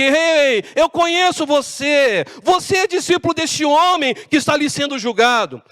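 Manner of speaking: high-pitched call of recognition; accusing servant. Acted. Acted servant accusing Peter before crowd.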